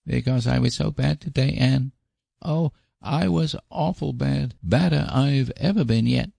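put-on high-pitched child's voice, owning up; woeful high little-boy voice; Davy, miserable little boy. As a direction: play a small boy sorry for himself, high. Boy confesses to Anne.

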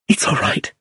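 barely voiced reassurance; almost whisper it after a hard swallow; choked-back whisper. A narrator's reading. Iris accepting an apology after painful memory, whispered.

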